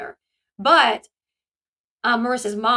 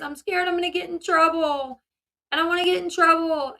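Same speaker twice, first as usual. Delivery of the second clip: mildly whiny, higher mimicry; imitated tearful fear; 5 semitones higher than usual. Daughter on the phone to father, mock tearful fear. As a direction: imitate a scared teen close to tears. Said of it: "she starts crying".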